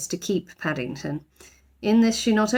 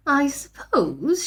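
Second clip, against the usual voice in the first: stern housekeeper; 7 semitones higher, much slower than usual. A narrator's reading. Voices Mrs Bird.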